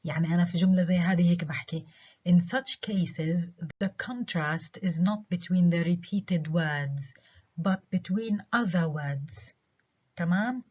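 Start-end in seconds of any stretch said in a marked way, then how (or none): 2.3-9.5 slow reading, words and other stressed. Shown as a demonstration. Teacher reading the rule aloud, slow and stressed. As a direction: read it slowly, leaning on words and other. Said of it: "Stress على words و stress على other".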